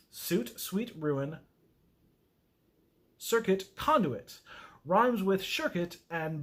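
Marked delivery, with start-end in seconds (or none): 0.1-4.4 slow restart. Shown as a demonstration.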